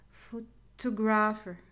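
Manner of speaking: Photographer slowly, weight on TO; slow syllable test of Photographer; second-syllable stress. Shown as a demonstration. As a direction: split Photographer after pho, leaning on TO. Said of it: "the second one".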